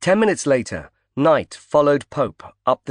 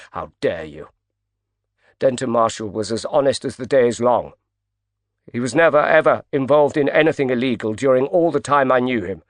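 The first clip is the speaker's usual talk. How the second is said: livid. Acted.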